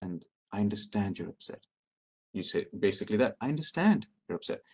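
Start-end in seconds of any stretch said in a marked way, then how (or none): 0.5-1.6 calm. Shown as a demonstration. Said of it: "notice how I'm saying it calmly". 3.4-4.6 steady, even reassurance; calm understanding voice; calm and sincere. Shown as a demonstration. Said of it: "notice how I'm saying it calmly".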